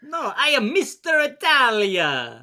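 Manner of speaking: high, loud hammy proclamation; mock Mister Italia. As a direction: belt it out high as a hammed-up alias. Mock fake name, acted reply.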